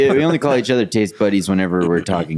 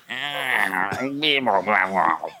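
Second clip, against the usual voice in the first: put-on old alien voice; 5 dB quieter than usual. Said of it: "that's my old alien impression".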